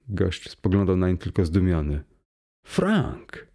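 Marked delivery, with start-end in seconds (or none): 2.7-3.5 high, startled cry of the name; astonished exclamation. A narrator's reading. Friend stunned at the sight of Frank, crying out his name. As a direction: gasp out the name in disbelief. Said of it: "wykrzyknął wreszcie".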